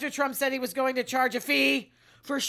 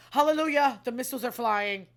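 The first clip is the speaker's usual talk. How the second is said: mock hallelujah cheer; 5 dB louder than usual.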